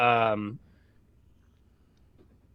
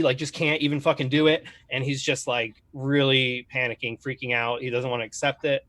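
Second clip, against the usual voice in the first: ordinary talk, nothing marked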